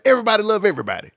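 quoting Jackie Moon. Retold or imitated. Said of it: "that Jackie Moon always used to say".

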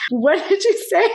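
high-pitched, incredulous retold question; mock disbelief. Neighbor answering the creepy guy, acted disbelief. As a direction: play the startled neighbor, pitched right up.

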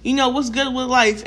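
casual greeting to a friend; relaxed, everyday friendly question; friendly check-in. Acted. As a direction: ask it easily, as to a pal. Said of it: "you're my friend".

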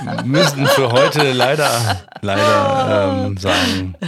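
loud, slowed by real laughter; amused sign-off over laughter; laughing. Real, not acted. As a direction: try to close the show while laughing. Wrapping up amid shared laughter.

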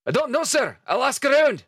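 high gruff sailor voice; Dugald voice. Acted. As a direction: answer the captain smartly. Dugald answers captain.

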